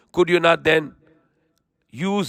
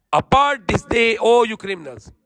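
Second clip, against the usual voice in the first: a hint of a stern commanding voice, raised; stern divine command; 4 semitones higher than usual. Preacher voicing the judgment on the criminals, lightly stern.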